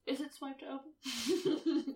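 laughing. Real, not acted. Asks through laughter.

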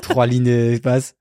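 slow deadpan dictation. Pretend. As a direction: spell it out slowly. Mock LinkedIn post dictation.

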